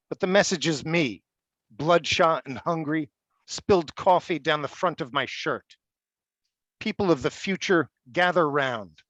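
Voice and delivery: measured prose-poem recital; poem reading. Acted. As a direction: deliver each sentence as a separate statement, pausing between. Reads prose poem Greetings.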